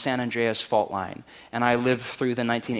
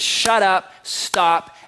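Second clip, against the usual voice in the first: commanding rebuke; 6 semitones higher, 4 dB louder, much slower than usual. Acted. Jesus rebukes the storm.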